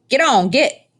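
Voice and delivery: high, loud shoo at a bird; shouting. A narrator's reading. Boy flaps his arms and yells at the crow on Edward's head. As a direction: chase the crow off with a yell.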